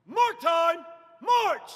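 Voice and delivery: drawn out parade commands. Shown as a demonstration. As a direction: mark time drawn out, march shouted. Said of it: "emphasizing ch in march".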